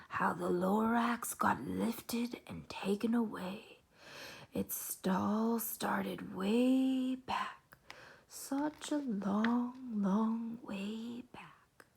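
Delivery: very slow, drawn-out hushed telling; lightly voiced Onceler. Onceler telling the kids his secret tale, slow. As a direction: stretch out long way back like a secret. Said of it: "old Onceler whispers are not very clear".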